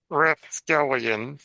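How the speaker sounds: ordinary talk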